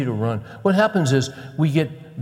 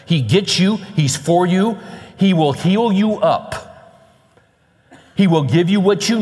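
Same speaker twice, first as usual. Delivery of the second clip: emphatic, rallying sermon delivery; driving preacher cadence; impassioned preaching; 4 semitones higher, 5 dB louder than usual. Acted. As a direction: preach encouragement to the worn-out, phrase by phrase. Preaches encouragement to the weary.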